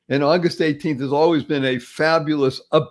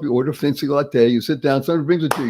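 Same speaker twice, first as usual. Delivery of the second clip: normal talking voice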